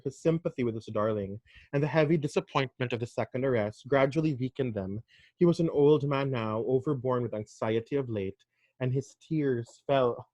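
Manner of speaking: measured reading of a classic novel, quotes lightly voiced; story narration. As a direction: read the chapter aloud, steady and composed. Reads the novel aloud.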